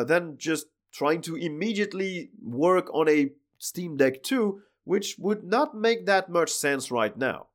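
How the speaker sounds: cracked, worn-out hoarse voice; hoarse sick voice. Real, not acted. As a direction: talk through a dying, hoarse voice. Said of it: "my voice is dying".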